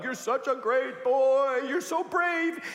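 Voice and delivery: high, loud proud dad; dad hugging his son and praising him; proud praise. Retold or imitated. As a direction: gush over his brave son.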